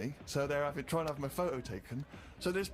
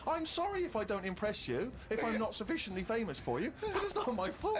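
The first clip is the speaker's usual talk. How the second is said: indignant rant; 10 semitones higher, 5 dB louder than usual. Real, not acted. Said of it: "by now I was just furious".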